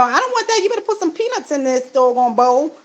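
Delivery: mock the parrot's squawky demand for peanuts; voicing the demanding parrot. Voicing her parrot demanding peanuts, a hint of a bird. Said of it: "he was screaming when he was saying it".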